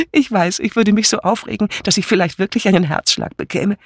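leicht gespielte, aufgeregt plaudernde Ehefrau; lebhafte Pfarrersfrau. Acted. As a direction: plappere munter auf deinen Mann ein. (munter plaudernd)

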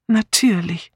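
whispered, far away in thought; absent-minded. A narrator's reading. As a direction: say it as if lost in thought. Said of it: "wie geistesabwesend". (geistesabwesend geflüstert)

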